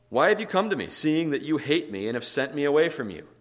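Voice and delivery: high, loud indignant challenge; panicked, belligerent outburst. Acted. Isaac confronting Abimelech and his friends, panicked and belligerent. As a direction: fire it out as a rattled accusation. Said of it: "Isaac panics here".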